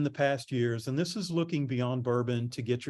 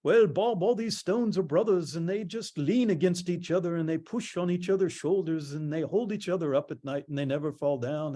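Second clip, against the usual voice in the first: retold mason in a lightly put-on Scottish accent, pitched up at first; 4 semitones higher than usual. Telling a PR crowd what the Scottish mason said, in a light Scottish accent. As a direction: ease into a Scottish lilt for the stonemason. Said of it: "in his big Scottish accent".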